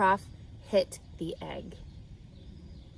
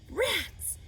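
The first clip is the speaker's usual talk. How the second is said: disgusted exclamation; 10 semitones higher than usual. A narrator's reading. Lurvy finds the rat nest.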